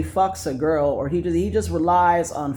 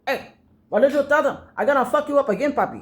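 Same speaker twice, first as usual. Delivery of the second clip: imitating rival's threat; 8 semitones higher, faster than usual. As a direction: play the small man yelling threats. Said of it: "and he goes".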